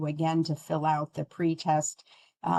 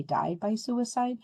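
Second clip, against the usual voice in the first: "died by suicide" lifted high and slowed; preferred term, emphasized; 7 semitones higher than usual. Shown as a demonstration. Trainer modeling the right wording for clinicians, higher and slower. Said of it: "You're gonna hear me say".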